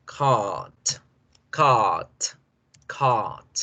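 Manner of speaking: "cart" with a long held A, no rolled R. Shown as a demonstration. Teacher demonstrating the English cart. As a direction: stretch the A in "cart". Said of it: "se pronuncia con esa".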